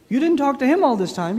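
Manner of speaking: ordinary talk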